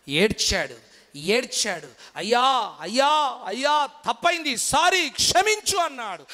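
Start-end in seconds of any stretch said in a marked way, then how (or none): 2.1-5.8 imitating a begging plea, pitch climbing higher; hammed-up plea for forgiveness; mock pleading sob. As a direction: Esau begging his father, lightly acted tearful plea. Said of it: "అలా ఏశావు ఏడ్చాడు".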